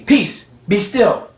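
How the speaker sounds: slow, calm command; Jesus calmly speaking to the sea. Acted. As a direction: still the sea gently. Jesus rebuking the storm.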